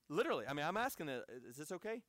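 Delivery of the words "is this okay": much softer, discreet question; hushed checking. Retold or imitated. Visitor privately asking his host for reassurance, hushed. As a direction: ask it under your breath.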